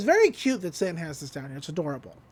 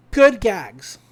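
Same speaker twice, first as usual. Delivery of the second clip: chuckling while praising; laughing; 7 dB louder than usual. Real, not acted. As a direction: laugh through the words.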